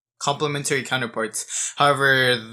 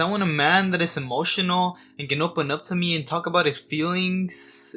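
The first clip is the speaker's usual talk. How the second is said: mock women's complaint; 4 semitones higher than usual. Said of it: "is what a lot of women say".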